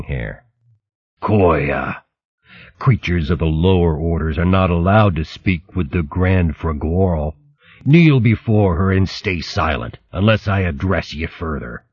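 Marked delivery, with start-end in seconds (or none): 1.2-11.8 lightly voiced sneering rat; cold, scornful rat guard; contemptuous rat voice. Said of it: "voice was heavy with contempt".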